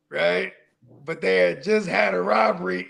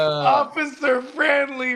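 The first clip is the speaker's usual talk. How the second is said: slow drawn-out call; 5 semitones higher, much slower than usual. Retold or imitated. Mock calling out name.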